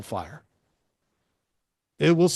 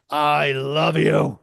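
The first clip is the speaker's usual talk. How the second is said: slow emphatic take; 5 dB louder, much slower than usual. Shown as a demonstration. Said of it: "They all sound super different".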